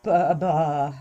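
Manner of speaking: dazed, lost for words; speechless stammer. Acted. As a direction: stammer again, stunned. Had been rendered speechless.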